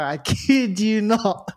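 laughing through the words. Real, not acted. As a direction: chuckle as you swear it. Laughing while swearing truth.

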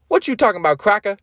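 a hint of a wisecracking comic sidekick; Donkey. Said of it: "who's played by Eddie Murphy".

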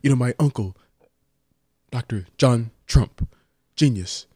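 lightly voiced, halting presidential impression; Donald Trump. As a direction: brag in measured chunks, with pauses. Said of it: "you and your Trump impression".

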